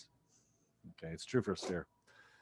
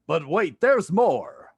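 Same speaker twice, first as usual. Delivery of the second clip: loud, high "but wait, there's more"; mock infomercial; 5 semitones higher, 5 dB louder, much slower than usual. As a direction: pitch it like a TV salesman. Infomercial catchphrase.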